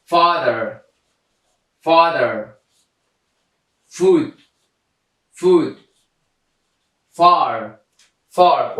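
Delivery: "father", "food", "far", each begun with a clear F; isolated, careful "father", "food", "far" with initial F; F sound demo. Shown as a demonstration. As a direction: model "father", "food", "far" one word at a time, twice each. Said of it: "اف آمده صدای ف را افاده کرده".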